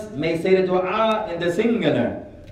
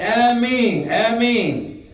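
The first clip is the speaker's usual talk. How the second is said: high, loud, drawn-out response; eager misplaced Ameen; 6 semitones higher, 4 dB louder, much slower than usual. Retold or imitated. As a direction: imitate an overeager man in the congregation. Imitates man's misplaced responses.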